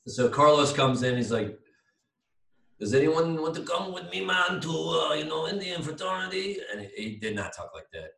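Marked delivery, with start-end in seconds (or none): 2.8-6.6 higher-pitched, hammed-up Indian accent; comic imitation of an Indian accent; attempted Indian accent. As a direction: put on a rough Indian accent. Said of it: "that was my attempt at Indian".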